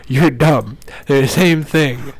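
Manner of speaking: slow, drawn-out mockery; scornful read-out. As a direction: sneer each word out slowly. Mocking note read aloud.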